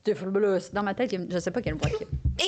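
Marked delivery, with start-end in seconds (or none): 0.0-0.7 lightly put-on heavy smoker; a hint of a big smoker's voice. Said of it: "Ça qu'il y a une voix de gros fumeur".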